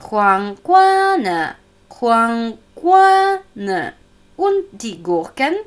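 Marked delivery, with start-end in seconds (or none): 0.1-3.9 careful slow Chinese question; asking the price. Shown as a demonstration. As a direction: ask Huangguan ne slowly, falling on guan. (langsam fragend: Huang Guan ne?)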